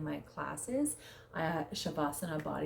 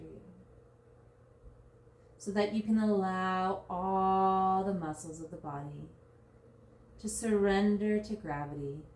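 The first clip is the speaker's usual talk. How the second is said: guided meditation. Real, not acted. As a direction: guide them gently into surrender, drawing out key words. Leads a body scan meditation.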